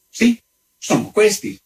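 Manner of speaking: high-pitched countess voice; haughty countess. A narrator's reading. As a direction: answer high, as an affronted lady. Haughty countess answers her visitor.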